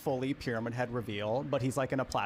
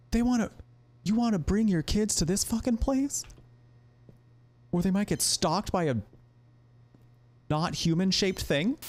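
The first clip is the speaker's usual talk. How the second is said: incredulous; 7 semitones higher than usual. Real, not acted. Reacting in disbelief to game.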